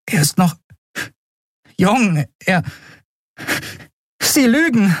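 high, rising disbelief; shocked denial. Acted. Endriel denies her father's death, shocked. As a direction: voice climbing in panic.

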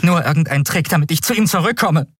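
high, fast accusation; a shaky, defiant denial; trembling denial. Acted. Endriel accuses Keru of a trick, trembling. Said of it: "ihre bebende Stimme verriet sie".

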